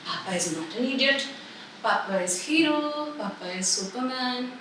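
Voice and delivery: put-on hushed, gentle talk to a baby; soft reassurance. Mother telling baby Papa is hero, softly reassuring.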